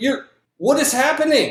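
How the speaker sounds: very high, shrill, startled, alarmed shout. Answering a player who yelled across to her, Denise shouting. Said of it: "And she just shouts".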